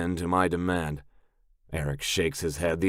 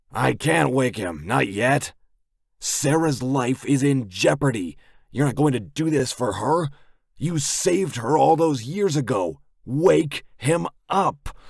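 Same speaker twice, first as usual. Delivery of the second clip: tense doctor; 7 semitones higher, 4 dB louder than usual. A narrator's reading.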